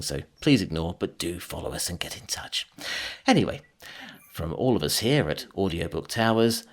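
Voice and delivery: smooth TV continuity announcer. Shown as a demonstration. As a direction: sign off like a late-night TV announcer. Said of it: "in your T V announcer voice".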